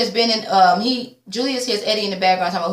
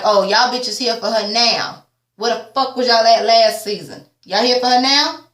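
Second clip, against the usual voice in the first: louder sassy rant; indignant rant; 3 dB louder than usual. Real, not acted. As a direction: call them out, fed up. Ranting at cast members.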